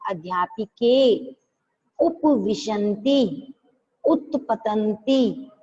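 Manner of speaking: अध्यापिके, उपविशन्ति, उत्पतन्ति said very slowly, each syllable spelled out; slow model reading of Sanskrit words; careful pronunciation. Shown as a demonstration. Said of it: "ऐसे आपको बोलना है".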